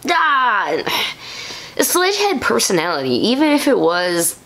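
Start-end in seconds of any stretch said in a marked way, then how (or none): 0.1-0.8 high short mock cry; a villain's yell, imitated. Sledge yelling for his minion, mock yell. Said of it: "used to yelling for one minion".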